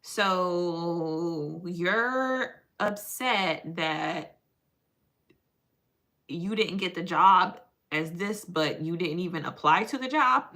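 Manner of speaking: imitated therapist, drawn-out opening. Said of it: "she be looking at me like".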